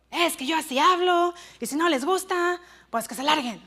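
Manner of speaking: mildly rough, defiant supervisor retort; gruff retort. Retold or imitated. Rude supervisor answering complaints that he yells at workers, gruff retort. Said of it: "bien golpeado".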